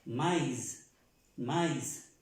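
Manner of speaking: maíz said with the a and the i kept apart; ma-íz, the i as in Spanish; maïs with sounded i. Shown as a demonstration. Teacher repeating maíz for Spanish-speaking learners, careful pron. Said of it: "tengo que pronunciar esa I como".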